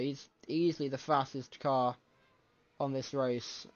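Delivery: talking through a yawn; words stretched by a yawn. Real, not acted. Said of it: "ignore the yawning".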